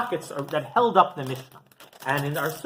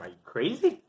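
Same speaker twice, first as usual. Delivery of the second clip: retold yell; 4 semitones higher, 4 dB louder than usual. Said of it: "starts yelling at him".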